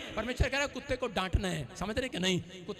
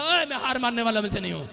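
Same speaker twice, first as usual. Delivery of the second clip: bold declaration; 7 dB louder, faster than usual. Shown as a demonstration. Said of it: "अपने पड़ोसी को बोलो".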